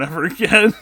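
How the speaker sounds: ordinary delivery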